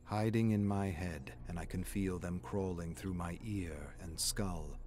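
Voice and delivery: lightly voiced unhinged seer, low and hushed; a hint of a creepy prophet, dropping to a whisper; eerie madman. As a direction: read it like a madman confiding his visions. Reading a mad patient's journal.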